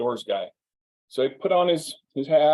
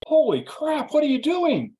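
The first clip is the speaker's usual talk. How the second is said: much higher mock alarm, a touch louder; imitating stunned disbelief; shocked thought; 13 semitones higher, 3 dB louder than usual. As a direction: gasp it out as if watching disaster. Inner shock as friend skis off.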